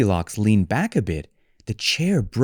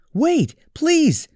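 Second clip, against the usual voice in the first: high, louder cub call; little bear calling; 4 dB louder than usual. Acted. Little Bear calls after the fleeing girl, high.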